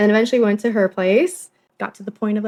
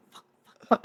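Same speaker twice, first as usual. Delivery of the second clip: panicked whisper, very soft; 7 dB quieter than usual. Retold or imitated. Caught woman whispers to herself as a man walks in, whispering. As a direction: imitate her hushed whispered cursing. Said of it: "like, just whispering".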